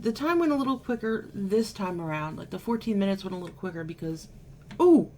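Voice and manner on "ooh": high, loud startled ooh; surprised ooh. Real, not acted. Spilling too much cleanser on her face, a high loud startled ooh. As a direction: caught off guard.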